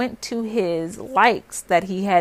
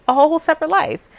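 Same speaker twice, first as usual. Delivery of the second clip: incredulous outburst; 8 semitones higher, 5 dB louder, faster than usual. Retold or imitated. Confronting cheating boyfriend.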